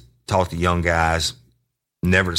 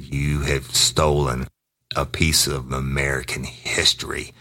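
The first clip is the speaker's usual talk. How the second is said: slow, weighty pronouncement; grave accusation; 3 semitones lower, slower than usual. Retold or imitated. Officer bluffing suspect about stolen revolver, slow grave accusation. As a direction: draw out the charge solemnly.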